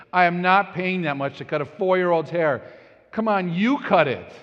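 mock outraged dad; indignant protest. Dad arguing with wife.

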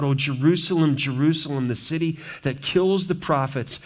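a touch of lament; Jesus crying out. Acted. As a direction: mourn the city aloud. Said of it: "he cries out".

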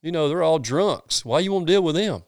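mock-incredulous church member; mocking churchgoers. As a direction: mimic the judgmental church folks. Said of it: "And they're like".

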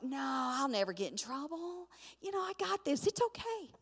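high, airy, carefree dismissal; soft, high singsong reassurance; breezy brush-off. Retold or imitated. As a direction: wave the worry away in a high, light voice.

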